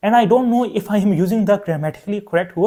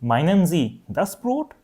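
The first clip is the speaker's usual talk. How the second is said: polite shop clerk; slower than usual. Retold or imitated. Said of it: "they will maybe ask you".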